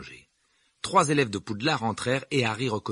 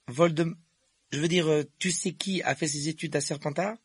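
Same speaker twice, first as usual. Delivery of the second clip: put-on higher, hesitant boy's voice; higher character voice, stumbling over the forbidden name; young Harry's dialogue voice; 7 semitones higher than usual. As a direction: voice an uncertain young wizard, pitched up.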